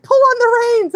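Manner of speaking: high, loud bossy instruction; imitated screaming. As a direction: holler orders like a tiny rescuer. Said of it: "screaming in my face".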